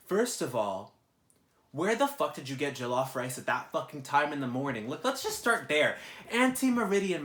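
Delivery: loud, incredulous rant with rising pitch; angry rant. Retold or imitated. Venting to viewers about the late-night mess, loud outraged rant. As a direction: vent your outrage at the roommate's friends.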